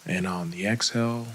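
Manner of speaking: calm, unhurried meditation guide with long pauses; guided meditation. Acted. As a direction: gently lead them into breath and body, leaving space between phrases.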